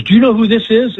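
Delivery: imitating the gushing counter lady; excited fan. Older woman nudging the young girl, mock star-struck.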